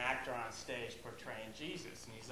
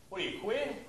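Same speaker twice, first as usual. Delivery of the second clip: Boston taunt; 6 semitones higher, 4 dB louder than usual. Retold or imitated. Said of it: "people call each other queer all the time".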